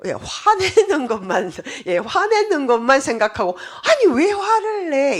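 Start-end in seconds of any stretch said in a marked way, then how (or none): 3.8-5.2 high, loud mock snap; mimicking a listener who only hears the anger; indignant retort. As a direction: fire back as if offended. Listener snapping back at anger.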